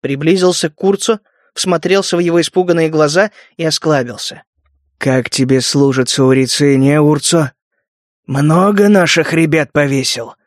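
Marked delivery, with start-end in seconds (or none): 5.0-10.3 cold, lower, unhurried question; icy menace, slow. Acted. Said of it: "холодно осведомился Гектор".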